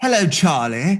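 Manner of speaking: mock posh British accent, put-on upper-class manner. Joking about how posh people say charlie: put-on posh british voice. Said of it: "depends on how posh people say it".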